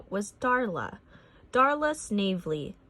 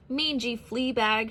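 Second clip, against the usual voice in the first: cried; 3 semitones higher than usual. A narrator's reading. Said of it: "she cried".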